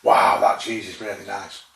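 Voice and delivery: slow, hammed-up mock enthusiasm; a slowed, overdone wow of delight. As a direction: gush over the cheese in jest. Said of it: "You're not gonna like".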